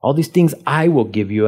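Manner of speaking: "I" picked out within the running phrase; stress on I. Shown as a demonstration. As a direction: lean on "I" mid-sentence. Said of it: "I emphasize I".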